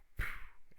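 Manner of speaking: unvoiced puff of air for a thud; breathy mouth-made javelin impact; imitated impact noise. Imitating javelin hitting the ground.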